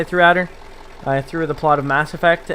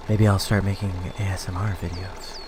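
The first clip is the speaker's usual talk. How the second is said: sultry voice; 8 semitones lower, 6 dB quieter than usual. Pretend. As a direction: keep purring it, low and hushed. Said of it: "my sultry voice".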